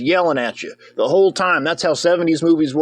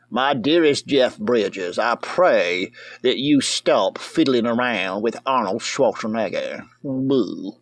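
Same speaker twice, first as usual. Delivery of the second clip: mock letter voice; 4 semitones lower, slower than usual.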